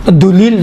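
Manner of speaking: "دلیل" as one fused word, dulil; wrong joining. Shown as a demonstration. Teacher warning against dulil, showing it fused. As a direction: run du and lil together in "دلیل". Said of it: "دلیل نہیں کہیں".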